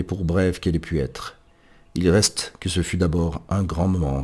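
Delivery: measured literary reading with emphatic openings; solemn reading aloud. Acted. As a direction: read a commemorative preface aloud, letting phrase endings fall. Reads the preface aloud.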